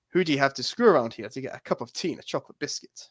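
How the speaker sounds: put-on lightly posh English accent; a light stab at a thick English accent; Hugh Grant. Co-host attempts the film quote for a friend, posh English accent. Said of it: "that was my amazing Hugh Grant impression".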